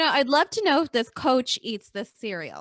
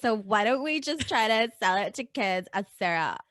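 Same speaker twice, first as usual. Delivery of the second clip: put-on Valley girl; 4 dB louder than usual. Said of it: "every marketing exec sounds like a Valley girl".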